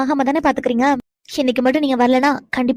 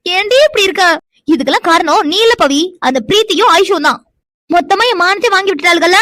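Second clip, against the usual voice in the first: exasperated scolding; 5 dB louder than usual. Acted. Wife scolds friend, exasperated.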